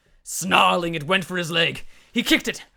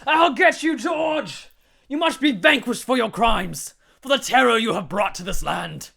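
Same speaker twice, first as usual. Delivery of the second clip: high, loud charging shout; battle scream; 5 semitones higher, 5 dB louder than usual. Acted. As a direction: scream it while running forward.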